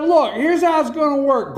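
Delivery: high, emphatic retold ultimatum; acted-out firm declaration; Ronald Reagan. Acted quote of Reagan to Gorbachev.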